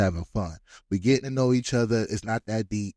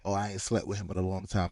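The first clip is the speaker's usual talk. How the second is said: low-key, softer mocking echo; dismissive parroting; 3 semitones lower, 5 dB quieter than usual. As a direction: parrot a tired excuse, unconvinced. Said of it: "that's what they all say".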